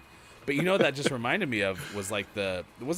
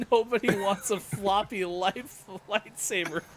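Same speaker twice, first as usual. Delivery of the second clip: imitating Brendan; 11 semitones higher, 3 dB louder, slower than usual. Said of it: "Brendan goes".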